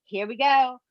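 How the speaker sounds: sing-song hype; hyped up. Retold or imitated. Repeated hype.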